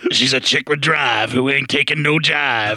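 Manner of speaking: slow, lightly put-on trailer announcer; reading the rhyme as a seventies trailer narrator; movie trailer voice. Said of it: "Just read it".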